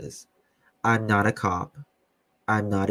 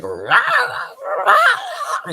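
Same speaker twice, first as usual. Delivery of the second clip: mock cheer; 8 dB louder, much slower than usual. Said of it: "they'll be like".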